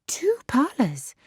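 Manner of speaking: put-on breathless, awed whisper of a girl marvelling. A narrator's reading. Harriet marvelling at the Martins' parlours, whispering in awe. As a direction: hush it as if it's a wonder. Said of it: "speak with so much exultation".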